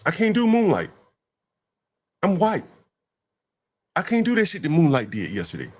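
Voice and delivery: high mocking voice; mocking impression of a white woman. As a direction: mimic her, pitched high. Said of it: "She's saying".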